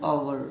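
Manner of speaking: आवर said "aa-wur", two syllables; British hour. Shown as a demonstration. Teacher repeats the British form, आवर in two syllables. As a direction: give आवर its w glide. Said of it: "British English में".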